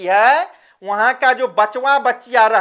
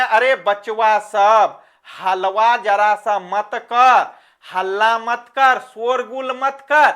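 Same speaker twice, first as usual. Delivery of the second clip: slow scolding call; 2 semitones lower, slower than usual. Shown as a demonstration. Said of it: "मैंने चिल्लाया और जोर से बोल दिया".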